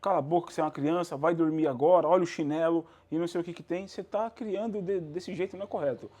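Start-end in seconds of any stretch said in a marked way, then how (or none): 0.0-2.8 bossy parent threat, louder toward the end; strict parent threatening a child at bedtime, mock angry. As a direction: threaten like an authoritarian dad. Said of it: "Ia falar".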